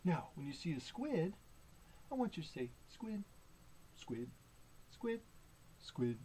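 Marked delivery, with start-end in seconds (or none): 2.9-3.2 SQUID on a short high note. Pretend. Reader prompts children to say squid, high note. 3.9-4.3 SQUID on a short low note. Pretend. Reader prompts children to say squid, low note. 4.9-5.2 SQUID on a short high note. Pretend. Reader prompts children to say squid, high note. 5.8-6.2 SQUID on a short low note. Pretend. Reader prompts children to say squid, low note.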